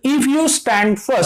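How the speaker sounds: very slow, word by word, like dictating; slow dictation. Shown as a demonstration. Teacher reading an example sentence to the class, very slow. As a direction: spell the example out slowly for students. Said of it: "next means".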